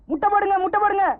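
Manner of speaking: high calling out. Acted. Calling order at liquor shop.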